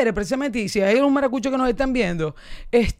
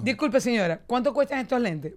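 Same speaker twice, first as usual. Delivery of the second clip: plain; 4 dB quieter than usual. Pretend. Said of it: "por ejemplo".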